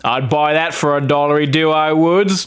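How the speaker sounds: hammed-up Australian accent quoting the film; Aussie accent. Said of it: "That's a pretty good Aussie accent".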